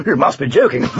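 giggling. A narrator's reading. Knight is told to cut down a tree, giggling. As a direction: giggle through the words and after. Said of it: "giggled Sir Tumbleweed".

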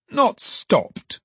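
very high-pitched disbelief; aghast, pitch shooting up; shocked exclamation. A narrator's reading. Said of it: "exclaimed the alderman".

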